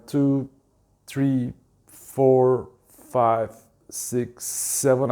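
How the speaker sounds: slow, evenly spaced count; counting out breaths. Shown as a demonstration. Instructor demonstrating breathing to the listeners, counting out breaths. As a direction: count steadily, a short gap between numbers. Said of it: "okay, it goes like that".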